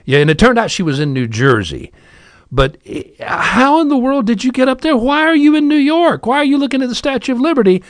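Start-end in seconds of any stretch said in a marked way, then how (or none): 3.2-7.8 much higher, rapid disbelieving questions; frantic dad. Retold or imitated. Father questioning his lost daughter, high frantic disbelief. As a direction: fire the questions off in alarm.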